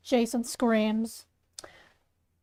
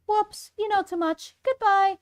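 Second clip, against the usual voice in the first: higher-pitched, blithe killer's farewell; playful killer; 7 semitones higher than usual. Acted. Murderer to a witness who knows too much, playfully menacing. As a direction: send the victim off, pitched up. Killer character dismisses victim.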